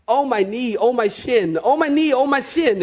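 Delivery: playful imitation of a hurt kid; kicked little boy. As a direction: chant the pain like tongues.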